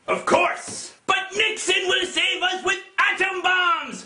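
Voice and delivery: ordinary talk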